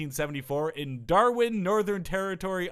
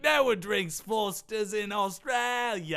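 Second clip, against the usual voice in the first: mock Australian; 4 semitones higher, slower than usual. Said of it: "every Australian says".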